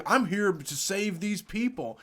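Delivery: lightly mock a self-righteous reply; imitated protester. Protester answering woman at car window, mock-earnest.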